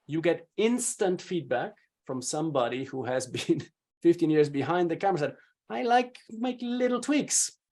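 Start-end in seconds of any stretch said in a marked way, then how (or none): 5.7-7.6 higher, slower quoted coaching note; lightly voiced director giving notes. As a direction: lightly act out a coach's feedback, pitched up.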